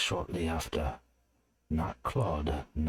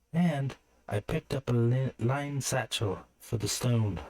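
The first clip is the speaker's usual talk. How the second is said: put-on higher young woman's voice; Alira's voice; 6 semitones higher than usual. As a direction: speak up as the girl with her news.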